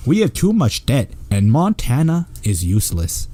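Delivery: lightly hammed-up Canadian accent. Host reading out the petition, mock Canadian accent. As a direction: read it with a put-on Canadian accent. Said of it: "or Canadian accent".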